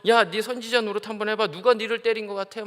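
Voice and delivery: a touch of jeering scorn; lightly voiced guard mocking a prisoner; mocking taunt. Guards taunting the beaten Jesus, mocking. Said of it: "막 조롱하면서".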